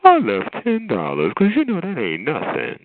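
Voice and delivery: swooping, showy imitation of a braggart; hammed-up big-spender brag; mock grand boasting. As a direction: flaunt it like it's nothing, exaggerated. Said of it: "he's acting like ten dollars ain't nothing".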